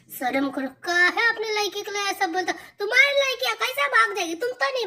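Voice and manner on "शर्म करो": "शर्म करो" at normal level, sharp and direct; firmer scold. Acted. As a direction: say it straight to his face. Wife scolds husband's crude remark.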